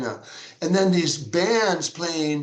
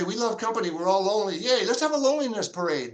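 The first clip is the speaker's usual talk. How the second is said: mock cheer; 4 semitones higher, faster than usual. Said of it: "get together and say".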